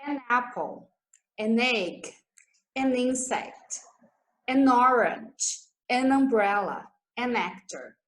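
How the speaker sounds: an apple, an egg with the N run into the vowel; linked an. Shown as a demonstration. Teacher showing students linked an, smooth and careful. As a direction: join the N straight onto the next vowel. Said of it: "Emenda o N com a vogal".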